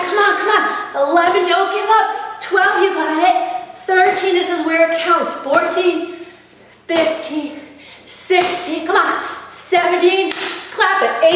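pumped-up coaching. Real, not acted. Coach pushing through final reps.

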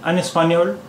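"एस्पेन्योल" said "espaniol", rising at the end; "एस्पेन्योल" as French "espagnol", the final l sounded; French pronunciation demo. Shown as a demonstration. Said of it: "उच्चारण इसका एस्पेन्योल ही है".

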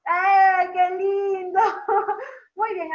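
real delight, drawn-out and high; delighted praise. Real, not acted. Praising a child's smile.

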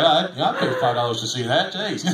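a hint of a botched Maine accent, laughing; failed Maine accent. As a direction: try a Maine accent and miss it. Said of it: "It wasn't that kind of an accent in Maine".

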